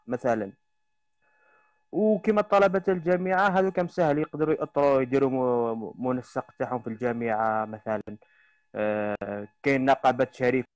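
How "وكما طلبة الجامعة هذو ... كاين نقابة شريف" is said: broken, crackling phone line; fuzz distortion. Real, not acted. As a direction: voice breaking up on a bad connection. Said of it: "الصوت تاعك راه مضروب".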